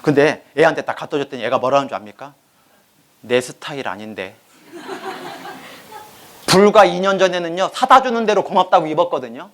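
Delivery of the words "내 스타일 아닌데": sulky daughter. Retold or imitated. Daughter rejects the skirt.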